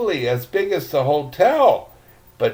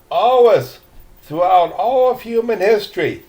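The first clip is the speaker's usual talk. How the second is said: almost angry; 5 semitones higher, 3 dB louder than usual. Acted. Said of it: "sounding almost angry".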